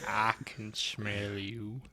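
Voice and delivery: slow, soft Morgan Freeman drawl; Morgan Freeman impression. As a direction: draw the words out slowly like Morgan Freeman. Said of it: "talk like Morgan Freeman".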